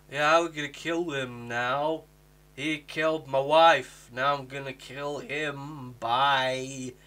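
slow, deadpan, unbothered; a lightly mocked flat line read, slow; mocking flat delivery. Imitating Graham's flat revenge line, slow and deadpan. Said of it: "That would have been far better than the".

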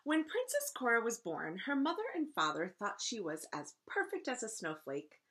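lively, clearly phrased read-aloud; story narration. A narrator's reading. Teacher reading a picture book to first graders, story narration. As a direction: read a storybook to children with expression.

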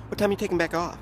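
quick slurred street phrasing; Ebonics phrasing. Retold or imitated. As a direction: mumble it fast like the brother at the bus. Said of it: "It was an Ebonic phrase".

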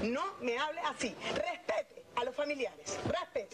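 indignant, emphatic demand. Real, not acted. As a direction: protest firmly, drawing out the demand for respect. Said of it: "Si no baja la voz".

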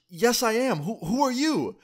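high, stammering disbelief; teen answering the man with the pipe, high and incredulous; incredulous reply. Retold or imitated. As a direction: push back, baffled and rattled. Teen arguing back in disbelief.

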